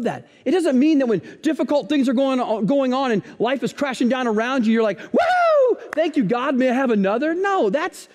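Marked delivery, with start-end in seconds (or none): 5.0-7.3 mock giddy cheer. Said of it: "that's just weird".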